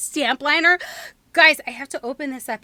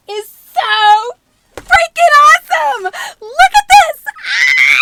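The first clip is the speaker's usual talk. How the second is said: thrilled screaming; 11 semitones higher, 11 dB louder than usual. Real, not acted. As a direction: shriek with delight at the gift. Opening gift, screaming with joy.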